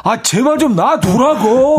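high, loud, slow annoyed shout; annoyed yell. Retold or imitated. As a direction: yell to be left alone. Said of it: "소리 지르고".

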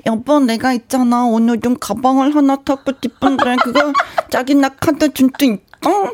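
slow cutesy wheedling wife; aegyo wife voice. Shown as a demonstration. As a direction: coo like a wife begging sweetly. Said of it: "지금 혜영 언니 하신 것처럼".

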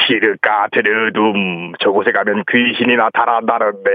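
suspense narrator. Acted. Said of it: "긴장감 조성하게 연출하게 하는".

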